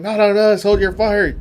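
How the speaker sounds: hammed-up shout to hold fire; screaming. Friendly soldiers yelling at their captain, mock shouting. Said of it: "both screaming at the captain".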